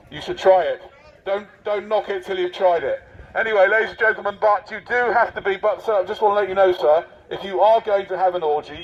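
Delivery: lightly voiced officious marshal addressing the public; a touch of a self-important volunteer marshal; pompous covid marshal. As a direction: announce the rules like a smug official.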